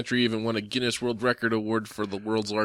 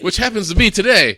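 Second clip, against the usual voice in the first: announcer voice; 11 semitones higher, 10 dB louder than usual. Pretend. Continues announcer voice.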